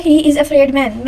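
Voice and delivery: slow, deliberate reading of an example; slow wrong example. Shown as a demonstration. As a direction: read slowly, word by word. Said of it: "ये वाला sentence गलत है".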